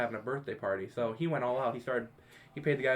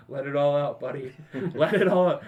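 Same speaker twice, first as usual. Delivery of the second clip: mock cheer; 6 dB louder than usual. Guys cheering him while puking.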